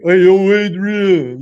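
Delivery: loud, drawn-out Philly holler; slow, loud mock Philly shout; Philly accent. Shown as a demonstration. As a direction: call out in a hammed-up Philly accent. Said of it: "Like, a Philly accent".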